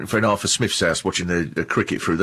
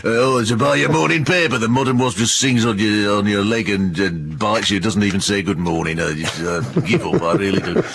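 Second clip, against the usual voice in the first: moany Yorkshire grumble. Retold or imitated. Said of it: "and he'd go".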